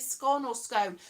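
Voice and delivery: first scone rhymes with "gone", second with "bone"; scone contrasted: short O, then long O; two pronunciations. Shown as a demonstration. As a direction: say scone as skon, then as skohn. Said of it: "he said scone is pronounced".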